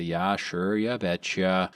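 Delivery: Minnesota accent. Shown as a demonstration. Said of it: "the long A".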